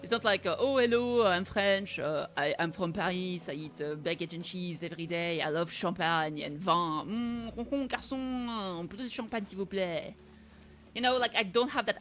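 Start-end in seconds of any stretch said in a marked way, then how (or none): 0.6-10.1 lightly hammed-up cliché French accent; mock French accent. Streamer parodying the French accent viewers expect, mock French accent. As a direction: play a cartoon Parisian with a French accent. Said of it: "my accent is not, it's not like".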